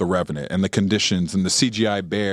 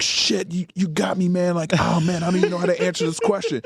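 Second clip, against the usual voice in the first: high, laughing, speeding up at the end; lightly voiced tongue-tied praise; flustered; 8 semitones higher than usual. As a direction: imitate a star stumped and delighted. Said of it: "And he's like".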